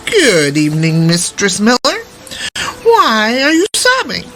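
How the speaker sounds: lightly voiced little man, rising on the question; a hint of an impish little man, curious. The tiny man greets the crying miller's daughter, lightly voiced.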